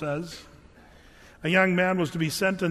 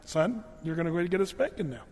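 matter-of-fact dad; 3 dB quieter than usual. Retold or imitated. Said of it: "it was like".

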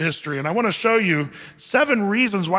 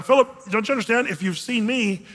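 mildly exasperated. Retold or imitated. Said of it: "he's almost exasperated".

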